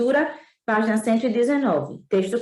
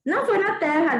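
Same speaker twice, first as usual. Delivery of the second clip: put-on higher boyish voice; little prince; 6 semitones higher than usual. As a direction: correct the fox as a small boy. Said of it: "disse o príncipezinho". (voz aguda de menino)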